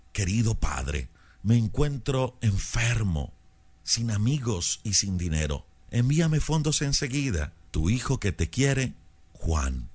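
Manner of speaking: a mild touch of sweet supplication; sweet and pleading. Acted. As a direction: read it as a tender plea for the son. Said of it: "con tono dulce y suplicante".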